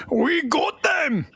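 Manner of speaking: yelled. Acted. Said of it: "Yelled one".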